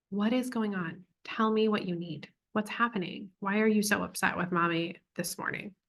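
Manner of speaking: lightly acted soothing questions to a child; gentle concern. Mother asks upset daughter what she needs, gently concerned.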